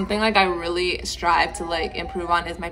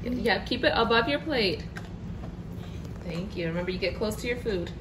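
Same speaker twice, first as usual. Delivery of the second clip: soft mealtime coaching; 9 dB quieter than usual. Real, not acted.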